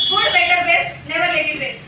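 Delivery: loud quick demo. Shown as a demonstration. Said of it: "you have to say it five times".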